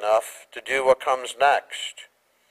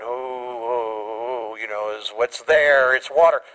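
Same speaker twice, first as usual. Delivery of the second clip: mock hesitant Peter; slower than usual. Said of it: "they kinda show Peter going".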